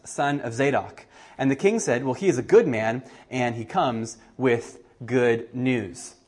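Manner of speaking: measured Bible reading voice; lightly dramatic scripture reading. Acted. Reads scripture passage aloud.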